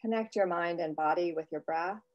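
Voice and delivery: soft, unhurried meditation voice; guided meditation. Real, not acted. Host leads writers in a breath after the singing bowl, guided meditation. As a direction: settle listeners quietly into their breath.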